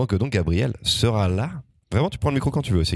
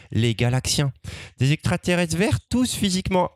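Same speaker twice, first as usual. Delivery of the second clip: put-on higher, eager little-kid voice; seven-year-old storyteller; 5 semitones higher than usual. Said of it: "voilà comment j'aurais pu raconter le Scrameustache".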